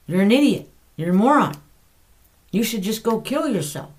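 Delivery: loud, sneering accuser; enemy's condemning voice. Acted. Preacher voicing the enemy's accusations, loud and sneering. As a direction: spit the insults out like a tormentor. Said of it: "the way the enemy does".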